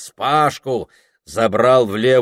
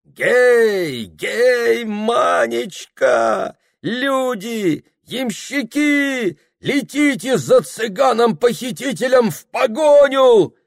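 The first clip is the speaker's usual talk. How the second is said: wild gypsy shout; 12 semitones higher, 3 dB louder, slower than usual. Acted.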